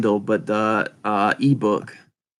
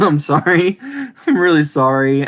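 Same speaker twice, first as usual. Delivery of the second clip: laughing apology; 3 semitones higher, 4 dB louder than usual. Real, not acted. Laughing apology for botched name.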